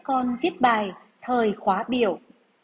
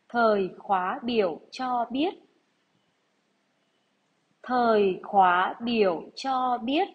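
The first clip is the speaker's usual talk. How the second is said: slow, deliberate dictation read; slower than usual. Acted. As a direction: read each phrase out for pupils to write. Teacher reads dictation to class.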